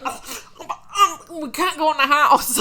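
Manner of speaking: the actor laughing through his line, blurting it. Retold or imitated. Retelling the actor's line, laughing through it.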